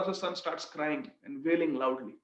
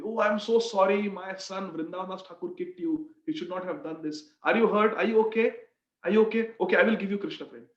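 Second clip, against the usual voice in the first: acted apologetic consoling; 2 semitones higher than usual. Father apologises to one his son kicked.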